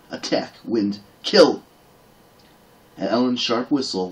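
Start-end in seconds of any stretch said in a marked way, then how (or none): 0.1-1.6 battle command. Acted. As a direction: urge the horse on, peaking into a shout. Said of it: "shouted battle commands".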